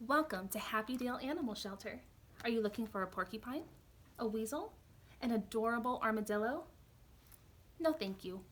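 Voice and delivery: put-on lively storytime voice for kids; picture book read aloud; reading to children.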